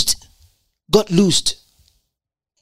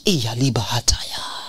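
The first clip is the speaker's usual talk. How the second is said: a quick breathy whisper to himself; whispered aside; 8 semitones lower, 7 dB quieter than usual. Real, not acted. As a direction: drop to a private whisper. Whispered aside mid-sermon.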